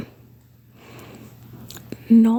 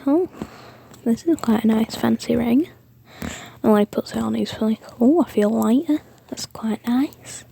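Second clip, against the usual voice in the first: lightly put-on British accent; British Deku. Deku admiring his new fancy ring, light British accent. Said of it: "I turned Deku British".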